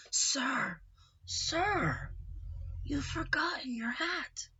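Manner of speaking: put-on hushed and slow, a gentle old voice; soft whisper. Old gentleman whispers to Uncle Nacho, hushed. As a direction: whisper it politely to a stranger. Old man woken, speaks softly.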